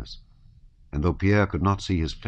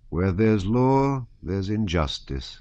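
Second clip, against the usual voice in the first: slow, sing-song proverb; lilting, drawn-out folk wisdom; kindly peasant soldier; 3 semitones higher, slower than usual. Acted. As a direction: draw out the saying, high start settling down.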